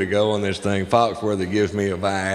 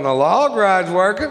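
excited; 10 semitones higher, 4 dB louder than usual. Retold or imitated. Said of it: "you'd be standing outside that fence going".

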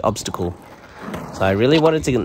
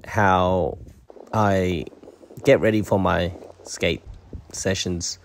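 halting, choppy robot voice; broken-up robot speech; 2 semitones lower, slower than usual. Real, not acted. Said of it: "Why am I talking like a robot?".

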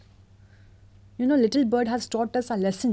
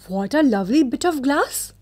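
high, bright exclaim; delighted cry; 4 semitones higher, 4 dB louder than usual. Acted. Poor match girl delighted at her jewel, excited cry. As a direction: gasp with joy at the glass. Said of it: "cried the little girl".

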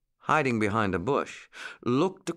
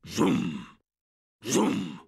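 imitated drum beat, spaced out; two separate drum-like booms; booming bass drum; 4 semitones lower than usual. A narrator's reading. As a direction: boom like a big bass drum. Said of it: "the big bass drum boomed out".

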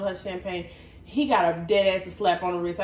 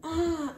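fake hurt cry; 7 semitones higher, 4 dB quieter than usual. Repeating the fake injury cry.

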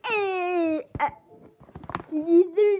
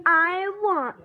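put-on whiny kid voice; 4 semitones higher, 3 dB louder than usual. Character asks for gross book.

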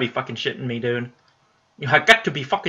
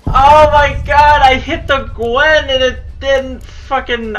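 high, loud and slow, stretched in despair; slow anguished shout; 12 semitones higher, 7 dB louder, slower than usual. Real, not acted. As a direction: drag out the outrage. Raging after losing fight.

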